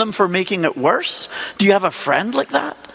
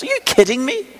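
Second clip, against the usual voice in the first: incredulous rebuke; 5 semitones higher than usual. Retold or imitated. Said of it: "And God says to him, more or less".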